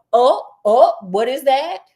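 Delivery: mock startled discovery; acted surprise. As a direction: exclaim as if suddenly spotting a clue. Acting out Sherlock spotting a clue.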